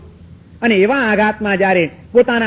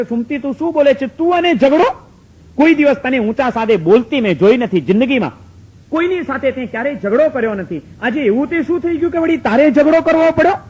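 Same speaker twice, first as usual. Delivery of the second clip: incredulous husband; 4 semitones higher than usual. Acted. Husband disbelieving wife's quarrel.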